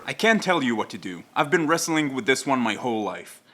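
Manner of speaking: understated recital of a TV hero's monologue; Jack Bauer. Retold or imitated. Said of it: "Jack tells her".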